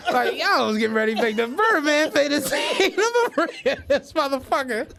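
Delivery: retelling his one-liner while cracking up; laughing through it. Real, not acted. Proud of his one-liner to his co-host, laughing. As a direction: giggle through the punchline. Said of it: "that's my joy now".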